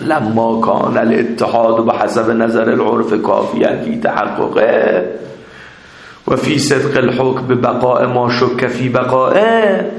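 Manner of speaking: slow, measured reading of a text; Arabic text recitation. Real, not acted. Teacher reading the Arabic text to his class, slow recitation. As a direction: read the Arabic out slowly, phrase by phrase.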